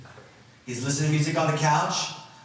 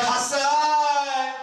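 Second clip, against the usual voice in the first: a high, anguished cry of his son's name; anguished call; 10 semitones higher than usual. Acted. A father shouting for his dead son, in anguish. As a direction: call out in shock and grief.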